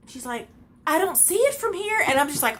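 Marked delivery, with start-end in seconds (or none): 0.9-2.0 mock woman. Mimicking the woman's reply.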